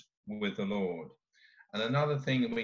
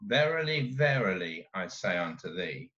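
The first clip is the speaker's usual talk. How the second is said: put-on old scripture reading; 5 semitones lower than usual. Shown as a demonstration. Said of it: "in the old authorized version".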